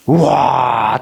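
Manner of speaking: long wow of put-on awe; drawn-out impressed wow; mock amazement. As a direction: marvel aloud, lightly acted. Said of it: "놀래요, 안 놀래요?".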